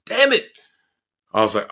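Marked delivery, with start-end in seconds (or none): 0.1-0.5 mock dismay. Retold realisation mid-fall.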